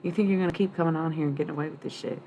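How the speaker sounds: put-on fast, challenging southern accent. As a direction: call them out in a southern accent. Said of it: "talking in an accent".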